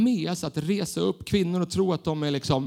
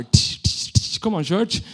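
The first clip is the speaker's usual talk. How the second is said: energetic worship leader; 5 dB louder, slower than usual. Retold or imitated. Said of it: "Hon kan vara så här".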